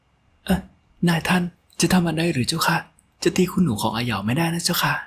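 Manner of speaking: high, wailing plea of a loyal maid; tearful pleading. A narrator's reading. Maid A Yao crying to the master to spare her mistress. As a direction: beg him not to strike her lady, near tears. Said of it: "ร้องไห้โฮ".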